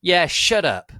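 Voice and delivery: high loud yell joining in; loud echo shout. A narrator's reading. Snake backing up Draco's dad, high loud yell. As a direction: pile on with a shout. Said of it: "said Snake".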